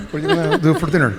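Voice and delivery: quick laughing question; fast giggly invite. Real, not acted. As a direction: rattle it off fast while laughing. Joking banter among panelists.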